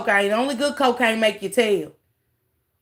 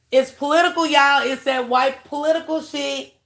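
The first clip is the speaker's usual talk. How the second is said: excited exclamation; 4 semitones higher than usual. Real, not acted. Streamer telling chat the real motive, high excited. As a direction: announce it like a gotcha.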